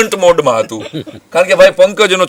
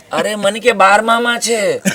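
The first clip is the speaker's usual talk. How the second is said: laughing; 6 semitones higher, slower than usual. Retold or imitated. Punchline of the Meena joke.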